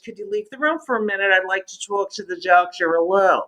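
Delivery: low, restrained retold mother; mother's polite request. Mother politely asks for privacy.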